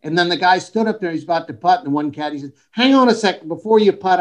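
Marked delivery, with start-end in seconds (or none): 2.7-4.2 higher-pitched mock objection; retold interruption. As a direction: cut in to stop the player. Caddy interrupts a putt in story.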